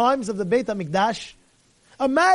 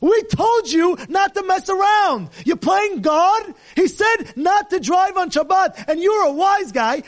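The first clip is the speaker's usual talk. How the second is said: stern scolding; 7 semitones higher than usual. Acted. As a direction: lay down the law. Sanhedrin scolding the driver.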